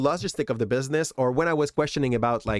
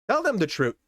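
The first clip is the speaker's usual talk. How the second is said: a touch of urgent inner voice, slightly higher; inner voice urging; 5 semitones higher than usual. Retold or imitated. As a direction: let the conscience nudge you. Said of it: "a hitch that was telling me".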